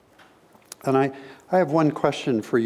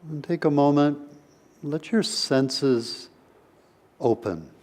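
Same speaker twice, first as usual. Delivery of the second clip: unhurried meditation guidance with long pauses; guided meditation. Real, not acted. Teacher opening a session with a brief meditation, guided meditation voice. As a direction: gently lead listeners inward, leaving space between phrases.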